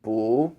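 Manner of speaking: "Bu" as if round a ball in the mouth; taller U vowel. Shown as a demonstration. Teacher demonstrating the Chinese U, tall round vowel in "Bu". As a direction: say "Bu" without closing the mouth all the way. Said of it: "Imagine you have a ball in your mouth".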